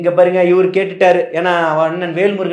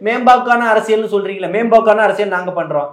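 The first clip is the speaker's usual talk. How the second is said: raised, pressing rebuttal; heated retort; 5 semitones higher than usual. Real, not acted. Party speaker retorts to the interviewer about rivals' wailing, heated. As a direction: push back hard at a critic.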